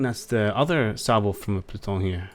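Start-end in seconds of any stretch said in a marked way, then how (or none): 1.6-2.3 lightly French-accented ship name. Real, not acted. Identifying the ship's salvo, French accent. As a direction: let a French accent creep in. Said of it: "Stop putting a French accent on".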